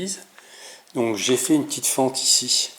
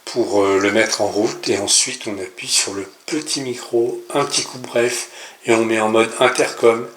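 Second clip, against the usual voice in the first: louder, heard through the headset microphone; through the intercom mic; 8 dB louder than usual. Real, not acted. Vlogger demoing his homemade intercom, speaking through its microphone. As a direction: talk straight into the headset mic. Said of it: "maintenant je parle là-dedans".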